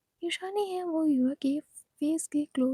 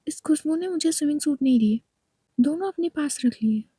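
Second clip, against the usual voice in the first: loud tattling; 5 dB louder than usual. Acted. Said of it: "क्यों चिल्ला रही हो?".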